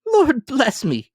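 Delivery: high, slow gasp of amazement; as if the breath is knocked out of him; breathless cry. Acted. Gentleman stunned by Scrooge's donation, breathless cry. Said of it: "cried the gentleman as if his breath were gone".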